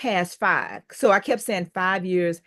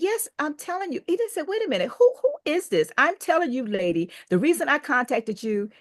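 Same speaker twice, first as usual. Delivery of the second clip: mildly upset caller; 7 semitones higher than usual. Retold or imitated. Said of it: "now he's upset".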